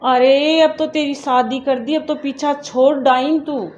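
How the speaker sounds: loud, harsh scolding of an unwanted daughter; angry scolding. Acted. Mother angrily scolds married daughter calling for shagun money, loud scolding. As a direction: tell her off hard, fed up and bitter.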